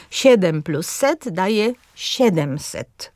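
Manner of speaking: siedemset slowly, stress on SIE; stress on third-last syllable. Shown as a demonstration. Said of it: "z akcentem na trzecią sylabę".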